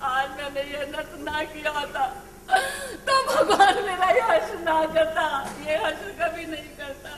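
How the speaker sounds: tearful mother's wail to God; lamenting. Acted. Mother mourning the daughter she killed, weeping. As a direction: break down in guilt and grief.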